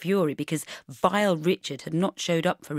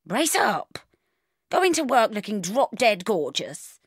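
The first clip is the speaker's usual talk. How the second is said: louder, breezy no-nonsense mum; brisk bossy mother; 4 dB louder than usual. Acted. Mother on the phone rallying her daughter, bossy and brisk. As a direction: sweep her daughter's tears aside briskly.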